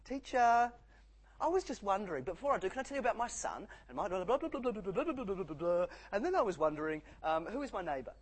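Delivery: mock the pushy student who won't stop talking; annoying know-it-all student. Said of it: "think annoying mature age student".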